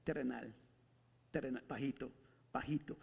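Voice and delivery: softly mocking low level. Shown as a demonstration. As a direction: sink the voice to show low. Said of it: "todavía está en un nivel".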